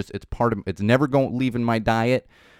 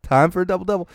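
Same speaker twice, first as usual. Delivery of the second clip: excited, higher, louder mock craving; late-night craving; 7 semitones higher, 5 dB louder than usual. Sister and me after a show, excitedly craving burgers. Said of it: "we're like".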